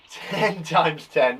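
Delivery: slow, deliberate times-table read; drawn out so pupils can follow; slowly spelled out. Shown as a demonstration. Teacher reading the question slowly to pupils, slow and deliberate. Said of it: "What's the answer to ten times ten?".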